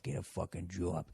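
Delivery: put-on low Boston-accent mutter; soft, low practice mumble; muttering to yourself. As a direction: mumble it under your breath. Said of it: "just muttering to yourself".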